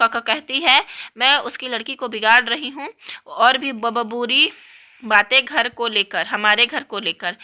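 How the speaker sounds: lightly voiced upset young girl; upset little girl. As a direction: complain like a hurt kid.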